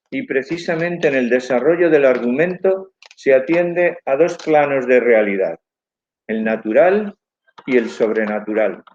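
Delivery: lecturing through a face mask; words dulled by a face mask. Real, not acted. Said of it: "de hablar con la mascarilla".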